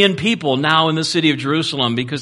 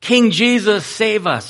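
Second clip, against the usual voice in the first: high-pitched, lightly raised imitation of a cheering crowd; mock crowd yell; 7 semitones higher, slower than usual. Crowds hail Jesus riding into the city, half-voiced yelling. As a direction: hail the king with a restrained, high cry. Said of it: "and they're yelling".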